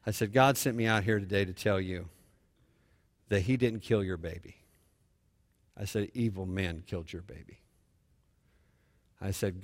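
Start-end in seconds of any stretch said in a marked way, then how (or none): 0.3-4.6 low, soft retold reassurance; gentle consolation. Consoling a bereaved father, retold. 6.1-7.6 low, very soft and grave; gentle consolation. Retold or imitated. Consoling a bereaved father, retold.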